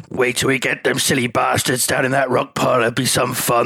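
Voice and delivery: run-on imitation with no punctuation; salty Bristol-tinged run-on, voice put on; all in one breath. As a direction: rattle it off as one unbroken sentence. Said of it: "all in one, like, no punctuation".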